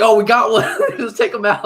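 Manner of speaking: lightly voiced kid who just bagged a deer; imitating hunting kids. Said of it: "It's like".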